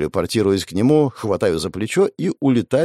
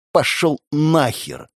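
relished hiss; 4 semitones higher, slower than usual. Acted. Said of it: "со вкусом процедила София".

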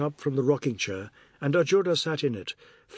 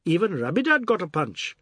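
raised, higher teasing call; mildly loud; 5 semitones higher, 3 dB louder than usual. Acted. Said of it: "he said loudly".

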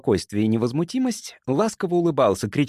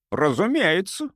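slow, higher-pitched assent; lightly amused, unhurried confirmation; smiling agreement; 7 semitones higher than usual. A narrator's reading. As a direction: agree with a drawn-out smile. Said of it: "улыбнулся доктор Форбс".

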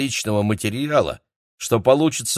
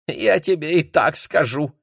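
хихикая; 8 semitones higher than usual. A narrator's reading. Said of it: "хихикнул Юнь".

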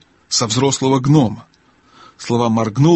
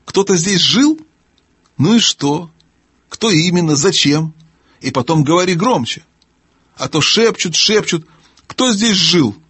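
higher-pitched querulous questioning; deaf testy gnome, baffled; 6 semitones higher than usual. Acted. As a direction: question impatiently in a high gnome voice.

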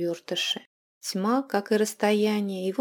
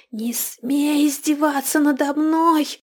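higher, louder, slow screeching hiss; furious hiss; 8 semitones higher, 7 dB louder, slower than usual. Acted. Hag recoiling from the mirror, screeching her hiss at the captive. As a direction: spit the words out like a cornered hag. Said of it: "прошипела Карга".

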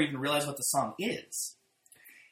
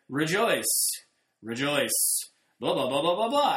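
flat monotone reader. Retold or imitated. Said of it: "flat and monotone".

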